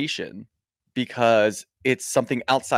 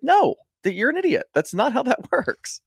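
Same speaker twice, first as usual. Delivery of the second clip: exasperated laugh; 12 semitones higher than usual. Real, not acted. Mocking Tamara's excuse.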